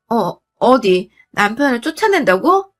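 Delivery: lightly acted stuttering indignation; mildly affronted, stumbling start; flustered stammer. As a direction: trip over the first word in shock. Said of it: "하면서 말까지 더듬으며".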